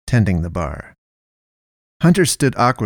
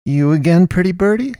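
higher-pitched, rising question from an entranced man; dazed officer; 9 semitones higher than usual. A narrator's reading. Dazed officer greeting a woman he has seen before, entranced.

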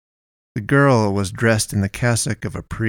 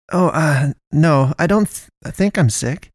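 higher, halting stammered reply; Naomi stuttering; 6 semitones higher than usual. Acted. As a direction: trip over the words, caught off guard. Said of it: "Naomi stuttered slowly".

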